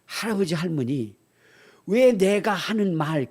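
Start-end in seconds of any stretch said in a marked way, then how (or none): none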